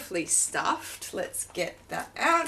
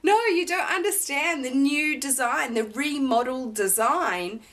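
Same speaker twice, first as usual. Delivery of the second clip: excited insisting; 4 semitones higher than usual. Retold or imitated. Retold protest to the sales assistant, high and excited. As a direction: insist breathlessly, pitched up. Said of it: "And I said".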